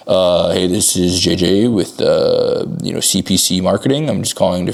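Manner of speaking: hesitant, dull phone opener; low-energy caller. Shown as a demonstration. Coach demos a flat cold-call opener that sounds like a scam. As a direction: sound like a bored debt collector. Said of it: "you're just gonna think you're, like, a debt collector".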